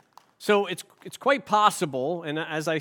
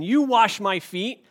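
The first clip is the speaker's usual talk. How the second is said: "you" pushed up and leaned on in "you wash my feet"; stress on you; 3 semitones higher, 4 dB louder than usual. Shown as a demonstration. Preacher showing Peter's stress, "you" emphasized. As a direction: land hard on "you", rising. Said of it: "He's emphasizing you".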